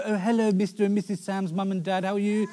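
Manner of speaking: mock posh, overly polite greeting; lightly voiced posh politeness; posh polite friend. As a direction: ham up a well-mannered guest. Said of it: "He'd go".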